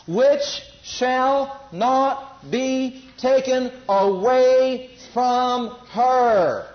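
very slow, deliberate reading of Jesus' words; preacher reading scripture to the congregation, very slow; solemn scripture reading. Acted. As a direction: read it slowly so each word lands. Reads Jesus' words slowly.

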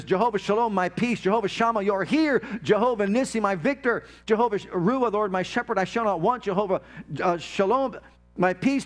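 fervent spoken prayer, naming God's names one by one; heartfelt prayer. Acted. Preacher praying aloud before the congregation, fervent. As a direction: pray it out like you mean every name.

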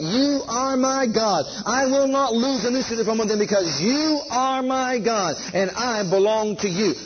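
slow, measured declaration of faith; slow confession. Shown as a demonstration. Preacher shows listeners how to declare it slowly. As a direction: speak it deliberately, word by word. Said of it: "You need to hear yourself say it".

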